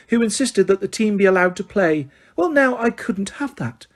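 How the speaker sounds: high, sugary correction; simpering. Acted. Umbridge correcting McGonagall, simpering. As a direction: simper the name.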